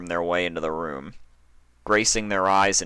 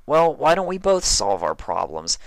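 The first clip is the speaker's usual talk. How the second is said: Spike's voice; 10 semitones higher, 5 dB louder than usual. A narrator's reading. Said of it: "Spike suggested".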